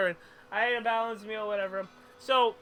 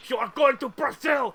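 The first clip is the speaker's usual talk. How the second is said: mock shout; 4 dB louder than usual. Repeating the game quote.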